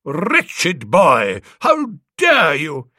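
stern vicar rebuking a choirboy loudly; fruity scolding. A narrator's reading. Vicar scolding choirboy during service, loud outraged rebuke. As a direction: thunder at the boy like an outraged vicar. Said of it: "fairly fruity oration".

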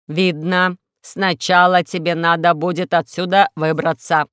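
measured, deliberate robot voice; solemn robot. Acted. Robot advises Alisa on getting out, measured and solemn.

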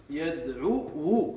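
يدعو drawn out slowly with its final waw sounded as yad-ʕu-wu; teacher's slow yad-ʕu-wu for يدعو; underlying form. Shown as a demonstration. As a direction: spell out the hidden ending of يدعو, slowly. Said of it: "في الأصل".

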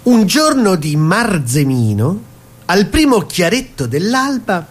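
slow, solemn poetic reading; poem recital. Acted. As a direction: recite it like a grand verse. Reading a comic wine poem. (lettura lenta e solenne di una poesia)

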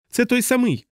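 high uncanny shout; eerie yell. A narrator's reading. Dunbar yells back to Hungry Joe in an eerie voice. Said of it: "моторошним голосом загорлав".

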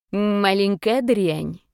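slow hissing monster; hissed insult. Acted. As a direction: hiss it slowly with menace. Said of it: "прошипел дедушка". (медленное злобное шипение)

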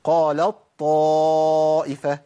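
قالت طائفة with ت turned into a doubled ط, slow; full assimilation. Shown as a demonstration. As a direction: press the ط of طائفة, no ت. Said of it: "بشيل التاء وابدلها بطاء".

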